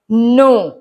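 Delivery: "नो" with no K sound at the start; silent K. Shown as a demonstration. Teacher reads out an example word, "नो" with silent K. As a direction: say "नो" starting straight on N. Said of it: "के silent है".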